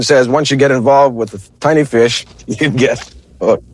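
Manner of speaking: trying not to laugh. Real, not acted. Anchor cracking up on air.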